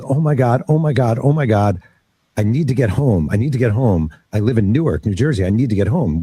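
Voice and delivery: urgent, repetitive pleading without real tears; breathless-style rush of retold panic; retold frantic crying. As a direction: imitate a mother overwhelmed and desperate. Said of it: "she's crying and screaming".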